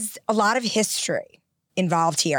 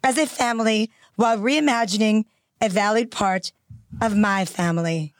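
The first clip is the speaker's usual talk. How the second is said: measured royal British reading, phrase by phrase; the Queen's cadence. Shown as a demonstration. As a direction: imitate the Queen's very specific cadence. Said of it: "she speaks in a very specific cadence".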